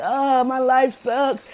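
very slow, sulky whine; mock self-pity. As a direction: drag it out like you feel sorry for yourself. Mimicking self-pitying friend.

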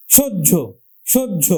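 সহ্য said as "shojjo", doubled j, stressed; pronunciation demo. Shown as a demonstration. Teacher models সহ্য for students. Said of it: "ওকার দিলে উচ্চারণ হলো কিন্তু কি?".

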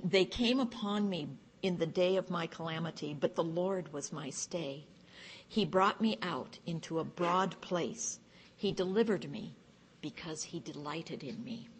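measured, emphatic psalm reading; scripture reading. Acted. Psalm read aloud to a study group, measured scripture reading. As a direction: read the verses out with deliberate weight.

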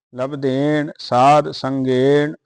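rising hold on ਸੰਗੇਣ, then a clear pause; ਸੰਗੇਣ as the resting point of the line; pause after ਸੰਗੇਣ. Shown as a demonstration. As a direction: stop and rest the voice after ਸੰਗੇਣ. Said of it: "ਇੱਥੇ ਵਿਸਰਾਮ ਹੈ।".

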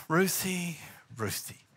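warning call fading down; name called twice. Retold or imitated. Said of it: "every time you hear your name twice".

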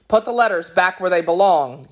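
fast, firm command; ordering. Acted. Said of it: "he ordered".

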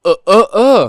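loud, high impatient agreement; loud yeah yeah. Acted. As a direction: bark the yeahs out at full volume. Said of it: "แล้วมันจะเสียงดังทำไมวะเนี่ย".

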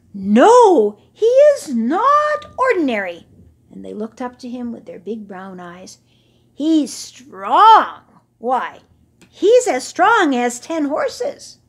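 high, loud chorus; adoring young camels. Acted. Young camels praising Hashmakaka, high and loud. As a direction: cheer for your hero. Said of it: "The young camels chorused".

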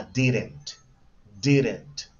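"didn't" said slowly and clearly; pronunciation model. Shown as a demonstration. Teacher shows the class the contraction, "didn't" pronounced carefully. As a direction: model the word "didn't" for learners. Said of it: "Listen to pronunciation".

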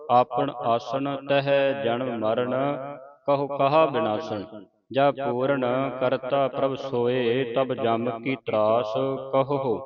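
slow, deliberate recitation of verse; scripture recitation. Shown as a demonstration. Teacher leads the congregation through the verses, slow recitation. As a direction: draw out each phrase, pausing between them.

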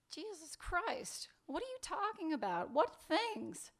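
pressing, upset questions; exasperated demand. Acted. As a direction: demand to be told, losing patience. Acted quarrel, demanding an answer.

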